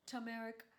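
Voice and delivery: turmeric said as "tuh-MER-ic", no r in the first syllable; variant pronunciation. Shown as a demonstration. Host shows viewers one way people say turmeric, variant pronunciation. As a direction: say turmeric with a plain "tuh" opening. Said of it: "I've heard people say".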